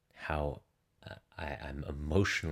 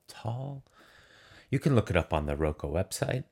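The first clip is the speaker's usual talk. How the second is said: slightly out of breath, real; out of breath after running stairs; 4 dB louder than usual. Real, not acted. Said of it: "I'm out of breath".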